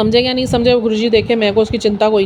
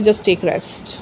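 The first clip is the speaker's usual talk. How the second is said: soft message; 5 semitones lower, 6 dB quieter, much slower than usual. Retold or imitated. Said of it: "universe का message आता है".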